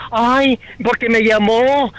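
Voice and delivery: slow, drawn-out mock whine; mock complaining. Caller mimicking people offended by name-calling, slow mock complaint. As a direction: imitate a wounded complainer, dragging it out.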